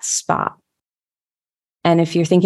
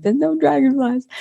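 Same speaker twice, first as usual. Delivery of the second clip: mock disappointed; 8 semitones higher than usual. Retelling her walk, inner voice.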